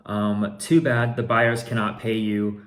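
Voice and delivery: all caps message. Retold or imitated. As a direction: read it like shouting in caps. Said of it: "in all caps".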